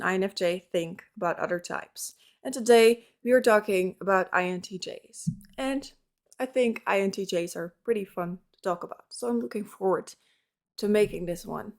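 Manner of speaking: rough morning voice, a bit hoarse; croaky just-woke-up voice. Real, not acted. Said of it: "my morning voice again".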